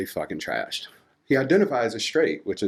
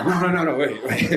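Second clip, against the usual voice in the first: laughing protest; 4 semitones higher than usual. Real, not acted. Stopping the audience, laughing.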